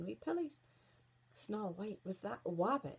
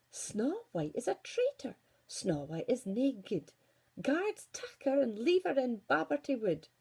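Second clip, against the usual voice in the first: louder, stern decree; commanding queen; 3 semitones higher, 5 dB louder than usual. Acted. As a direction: order the guards coldly. Queen condemns Snow White.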